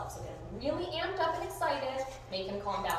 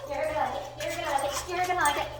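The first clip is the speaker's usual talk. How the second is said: playful teasing; 5 semitones higher, faster than usual. Real, not acted. Teasing dog with toy.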